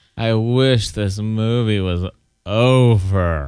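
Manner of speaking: totally worn out, exhausted, over drawn out, very slow. Retelling what McKenna said during the movie: imitating McKenna sounding exhausted. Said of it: "she said it in a totally exhausted way".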